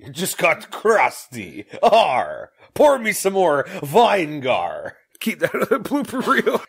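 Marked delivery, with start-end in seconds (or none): 1.8-5.0 pirate. Pretend. Pirate voice continues.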